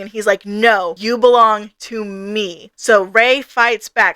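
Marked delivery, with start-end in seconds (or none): 0.5-2.7 slow, measured "you belong to me"; firm claim. Retold or imitated. Leon calls her back through their bond, slow and firm. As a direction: stake the claim slowly, without raising the voice. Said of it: "Leon is tugging on their soul string".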